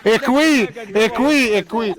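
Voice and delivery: words slurred around fingers; fingers in mouth. Real, not acted. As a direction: talk with fingers in your mouth. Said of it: "حط صبعه في بقه".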